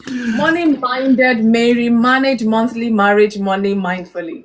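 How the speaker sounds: starts slow, loud on the twister; careful, deliberate twister; tongue twister, slow start. Shown as a demonstration. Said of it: "fast as possible".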